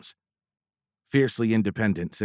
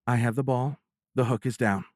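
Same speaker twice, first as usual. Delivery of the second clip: mischievous smile; 4 semitones higher than usual. Acted. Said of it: "with a mischievous smile".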